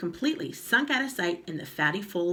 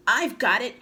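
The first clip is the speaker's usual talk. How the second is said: crying out; 5 semitones higher, 7 dB louder than usual. Acted. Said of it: "cried Mister Twit".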